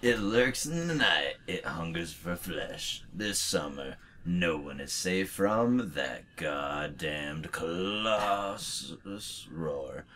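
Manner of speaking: slow, dramatic movie-trailer narration; horror trailer voice. Acted. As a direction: read it like a horror movie teaser. Rereads trailer card dramatically.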